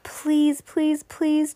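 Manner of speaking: an earnest little plea in her head; silent wishing. A narrator's reading. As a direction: wish hard, each please set apart. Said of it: "Judy wished silently".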